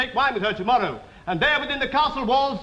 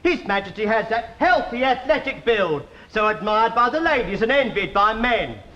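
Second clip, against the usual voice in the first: lower, simpering courtly flattery; fussy tailor; 5 semitones lower than usual. Acted. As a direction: fawn over his majesty's figure.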